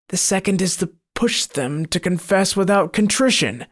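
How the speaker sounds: a gloating demon boasting of its snares; sinister monster. Acted. Monster answers.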